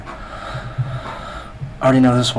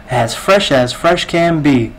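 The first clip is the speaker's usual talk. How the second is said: slow parroted pitch; 3 semitones higher, 3 dB louder, slower than usual. Retold or imitated. Cashier parrots line.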